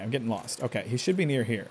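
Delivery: ordinary talk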